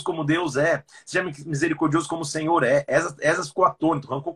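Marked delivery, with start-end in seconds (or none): none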